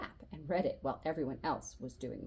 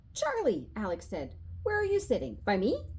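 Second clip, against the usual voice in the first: high eager call across the room; excited kid call; 5 semitones higher, 3 dB louder than usual. A narrator's reading. Alex calls to Charlie across class, high and eager. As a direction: bounce up, eager to know.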